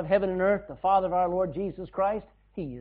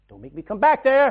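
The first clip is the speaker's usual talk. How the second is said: dad's warning; 4 semitones higher, 9 dB louder than usual. Retold or imitated. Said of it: "That's what my dad used to say".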